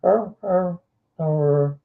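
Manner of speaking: a daintier little dog munching; white dog eating sound. Retold or imitated. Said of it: "they eat like".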